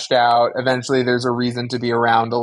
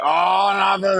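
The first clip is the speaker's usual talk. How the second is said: mock shout; 5 semitones higher than usual. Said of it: "And I said, Oh".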